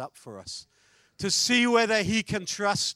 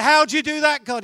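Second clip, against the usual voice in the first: amazed question; 8 semitones higher, 11 dB louder, faster than usual. Acted. Preacher asks God amazed.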